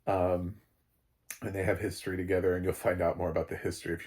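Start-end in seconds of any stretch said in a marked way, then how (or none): none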